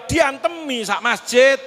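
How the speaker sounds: shouted, drawn out slowly; mock angry shout. Preacher mocking an angry superior, shouting. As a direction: bellow it like an angry boss.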